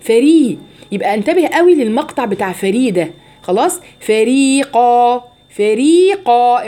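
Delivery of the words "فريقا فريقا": drawn-out فريقا, light فري then raised heavy قا; ترقيق ثم تفخيم القاف. Shown as a demonstration. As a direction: chant فريقا slowly, thickening only the ق. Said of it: "ارفع لسانك عند القاف". (فريقا مرتلة، فري مرققة والقاف مفخمة)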